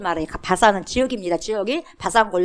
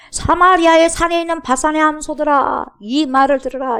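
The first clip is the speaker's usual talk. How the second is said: raised, higher booming proclamation; loud prophetic proclamation; proclaiming loudly; 6 semitones higher, 6 dB louder than usual. Shown as a demonstration. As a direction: call it out like a prophet to the crowd. Pastor proclaims the verse.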